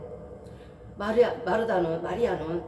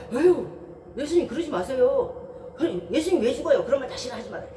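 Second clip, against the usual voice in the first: Peter pleading; 3 semitones higher than usual. Retold or imitated. Peter sighing and begging Jesus not to speak of death. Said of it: "베드로가 말합니다".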